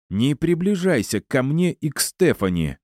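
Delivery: heated warning, pitch well up; threatening. A narrator's reading. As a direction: warn her off angrily. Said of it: "пригрозил я".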